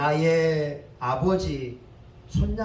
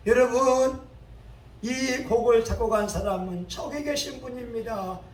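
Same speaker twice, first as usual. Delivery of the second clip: lightly acted conductor, raised and higher; conductor's announcement; 4 semitones higher than usual. Conductor pointing out the composer to the audience, raised announcing voice. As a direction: address the hall as a conductor.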